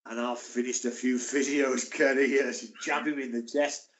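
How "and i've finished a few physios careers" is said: slow, menacing mock-growl of an intimidating player; Big Donk's voice. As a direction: lean in and threaten slowly. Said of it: "He goes".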